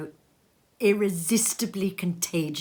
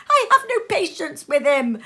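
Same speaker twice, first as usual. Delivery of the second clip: higher, louder tart remark; niece observing; 11 semitones higher, 8 dB louder than usual. Acted. Niece to husband, tart and higher. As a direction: say it primly. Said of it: "observed Scrooge's niece".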